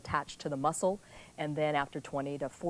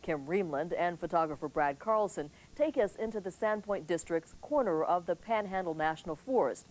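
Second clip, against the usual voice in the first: measured TV anchor delivery; news read. Acted. Anchor reporting the evening news to viewers, crisp broadcast read.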